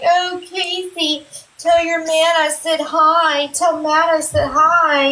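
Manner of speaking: mock his creepy hello in a lilting singsong; sing-song mimicry. Mimicking a man she finds weird.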